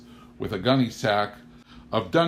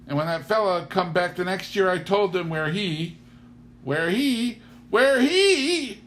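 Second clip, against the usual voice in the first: shy farm wife trailing into embarrassment, building louder; rambling Mrs Kettle; 11 semitones higher, 4 dB louder than usual. Acted. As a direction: chatter on, then freeze and stammer. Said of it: "She said".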